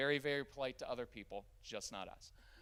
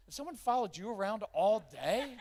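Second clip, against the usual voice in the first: laughing; 7 semitones higher, 9 dB louder than usual. Real, not acted.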